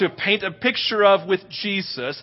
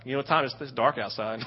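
put-on child's fear; 6 semitones lower, 9 dB quieter, faster than usual. Scared child refusing basement.

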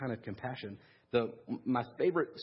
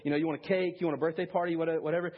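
higher-pitched mock scolding; ripping into her; 5 semitones higher than usual. One woman ripping into another over her birthday, mock scolding. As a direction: retell a sarcastic dressing-down. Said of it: "just ripped into her".

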